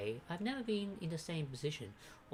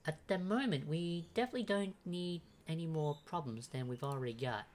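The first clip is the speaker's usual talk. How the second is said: higher-pitched Irish character voice; Irish accent, pitched up; 4 semitones higher than usual. Acted. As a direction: give the character an Irish lilt. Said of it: "Yeah, I'll make it Irish".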